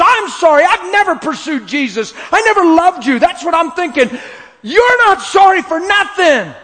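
high, loud voice choking with tears; real tears while preaching; tearful. Real, not acted. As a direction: speak through sobbing, pitch way up. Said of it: "preacher weeping while telling".

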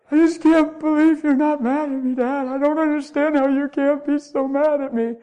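lightly voiced grateful son; son amazed. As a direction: marvel that dad isn't mad.

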